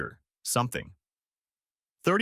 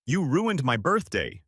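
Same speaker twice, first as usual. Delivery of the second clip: a touch of a screamed accusation, higher and slow; mock scream; 4 semitones higher, slower than usual. Half-hearted hammed-up scream. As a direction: sister yelling at sibling who canceled her party, mild mock scream. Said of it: "she was screaming".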